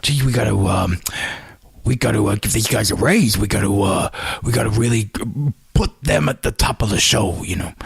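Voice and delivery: a hint of a mimicked promoter thinking aloud; Vince McMahon. Host mimics a character musing over raises, lightly voiced boss impression. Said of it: "same voice as Vince McMahon when I mimic him".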